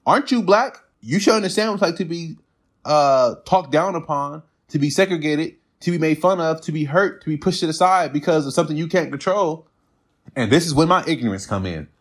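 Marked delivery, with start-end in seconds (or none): 0.1-9.7 retelling his pointed challenge, higher; challenging question. Retold or imitated. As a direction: press the point, pitched up and insistent. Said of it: "the next thing I said is".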